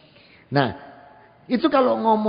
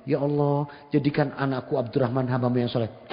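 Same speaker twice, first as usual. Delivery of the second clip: retold mother's prayer; 6 semitones lower, 4 dB quieter than usual. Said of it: "Ibunya doa begini".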